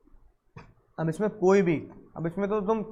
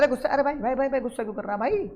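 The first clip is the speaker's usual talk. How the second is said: calming judge; 4 semitones higher, 3 dB quieter, faster than usual. Retold or imitated. Judge calms an angry buyer.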